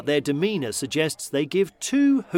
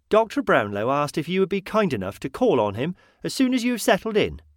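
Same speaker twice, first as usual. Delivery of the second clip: prim, higher, proper delivery; formal announcement; 6 semitones higher than usual. Acted. Landlady tells the guest the doctor wants him, formal announcement. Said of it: "she announced rather formally".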